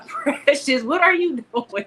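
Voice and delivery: laughing while calling her name; high amused laugh through the words. Real, not acted. Greeting co-host, laughing.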